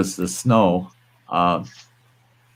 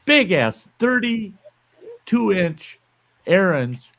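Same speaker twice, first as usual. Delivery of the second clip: incredulous outburst; 9 semitones higher than usual. Real, not acted. Scoffing at friend's snowblower claim.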